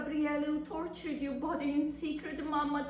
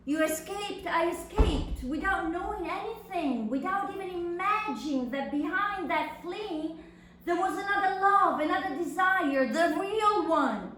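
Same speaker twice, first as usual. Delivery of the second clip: rising anguished outburst; 4 semitones higher, 4 dB louder than usual. Acted. Anguished outpouring to her mother.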